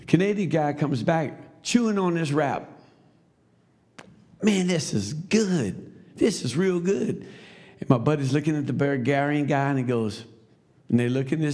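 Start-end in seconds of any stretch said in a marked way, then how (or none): 4.4-7.3 higher, drawn-out savouring praise; relishing the food. Retold or imitated. Canadian friend returns chewing a wrap, relishing it slowly. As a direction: stretch it out with relish, pitched up.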